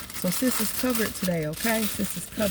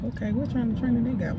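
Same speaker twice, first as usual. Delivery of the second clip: curious; 6 semitones higher than usual. Retold or imitated. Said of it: "So I'm like".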